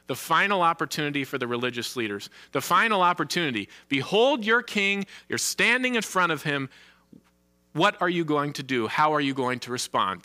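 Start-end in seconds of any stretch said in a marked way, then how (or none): 3.9-10.2 urgent appeal. Retold or imitated. Preacher voices Pilate's final appeal.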